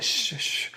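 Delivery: hushed, unvoiced "shh"; whispered shushing. Whispering teen to dad while on the phone, whispered shush. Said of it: "Why are you whispering?".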